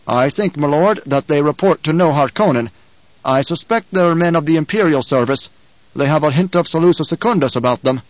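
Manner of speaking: lightly voiced retainer, measured suspicion; a hint of a loyal soldier confiding suspicions; earnest retainer reporting. Gurney tells his lord whom he suspects, lightly voiced earnest report.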